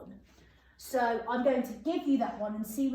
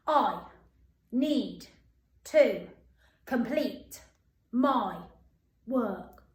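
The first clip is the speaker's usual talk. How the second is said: each word punched with a pause; 4 dB louder, much slower than usual. Shown as a demonstration. Teacher drilling the sentence word by word with pupils. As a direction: tap out every word separately. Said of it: "One more time".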